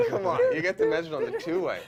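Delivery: very high, loud, laughing exclamation; excited disbelief. Real, not acted. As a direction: relive the thrill, half-laughing. Excited repeat after laughing.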